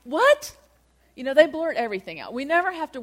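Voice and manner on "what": high, loud, incredulous "What?"; imitating stunned disciples; blurted disbelief. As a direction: blurt it out, pitch shooting upward. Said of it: "they blurt it right out".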